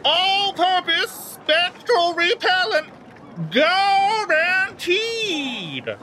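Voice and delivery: high, slow street-barker announcement; crying out an announcement. Acted. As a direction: call it out like a carnival barker. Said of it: "He, he cries this out".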